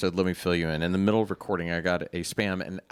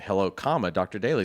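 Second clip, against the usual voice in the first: reading the comma aloud; 2 semitones lower than usual. Shown as a demonstration. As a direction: read the punctuation aloud like dictation. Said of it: "correctly used a comma before the name".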